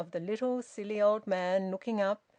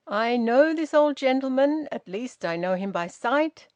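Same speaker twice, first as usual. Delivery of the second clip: loud, crisp and haughty; lady putting a policeman in his place, loud and haughty; 5 semitones higher, 7 dB louder than usual. A narrator's reading. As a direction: talk down to the policeman, precise and proud. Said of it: "her precise and haughty voice".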